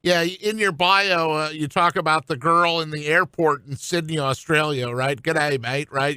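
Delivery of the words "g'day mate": half-hearted, slightly low Australian greeting; poor Australian accent. Pretend. Host jokingly greeting the guest like a Sydney local, in a poor Australian accent. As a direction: put on a badly faked Aussie accent. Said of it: "that's my poor Australian accent".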